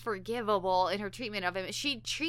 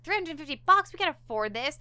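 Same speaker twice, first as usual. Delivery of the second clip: retold angry outburst; 5 semitones higher, faster than usual. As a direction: play the furious wife balking at the bill. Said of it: "she's really angry".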